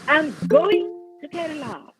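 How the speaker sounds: "going" stretched and emphasized, "to Kerala" falling away after it; stress on GOING. Shown as a demonstration. Teacher showing how stress changes meaning, stress on "going". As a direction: punch the word "going". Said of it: "The stress changes the meaning".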